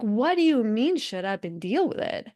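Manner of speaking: retold offence, lightly acted; mock-indignant comeback; mildly indignant retort. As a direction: push back as if pissed off. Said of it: "I'll be so pissed".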